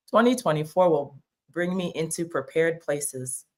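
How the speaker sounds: quiet, deliberate read-out; affirmation reading. Retold or imitated. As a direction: recite it like a daily affirmation. Reads out her affirmation.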